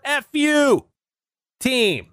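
"F U" popped out high and bright as a punchline; spring "F U" high, like the gag's reveal; punchline pitch. Shown as a demonstration. Pitching the short name, high and cheeky. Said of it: "For short".

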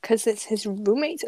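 talking while munching crisps; chewing between words; crunching chips. Real, not acted. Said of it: "Can you hear my crunching?".

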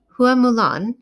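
a startled rise on Hua Mulan; puzzled echo. A narrator's reading. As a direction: echo the name back, puzzled. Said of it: "she echoed, a faint frown".

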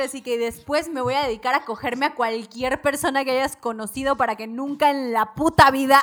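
loud angry tirade, rising at the end; angry rant. Retold or imitated. Bride cursing the groom, loud angry tirade. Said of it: "le empieza a mentar la madre".

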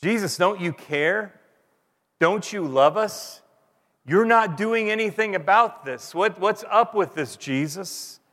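upset pleading. Retold or imitated. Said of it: "kinda upset with Jesus".

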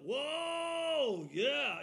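high, loud happy whoa; excited whoa. Retold or imitated. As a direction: cheer it like a fired-up congregant. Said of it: "they were like".

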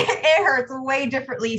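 starts with a real laugh, then says it lightly. Real, not acted. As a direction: let the laugh spill into the line. Agreeing with host, still amused.

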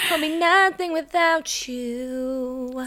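slow, high, hammed-up devotion; drawn-out melodrama. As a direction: wail it long and high, mock tragic.

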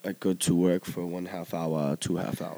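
put-on clumsy German accent, a touch low; mock German accent. Mocking German workers' speech.

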